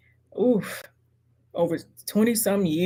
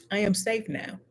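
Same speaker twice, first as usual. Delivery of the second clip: quiet affirmation; 2 semitones higher, 7 dB quieter than usual. Real, not acted. Affirmation said softly.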